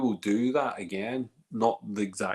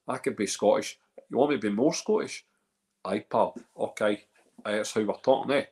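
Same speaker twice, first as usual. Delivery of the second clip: lightly put-on Scottish, a bit louder; Scottish accent; 5 dB louder than usual. Shown as a demonstration. Host jokes to viewers that he could be Scottish, Scottish accent. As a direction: play up being Scottish. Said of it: "I'm starting to sound Scottish. Mate, I could talk".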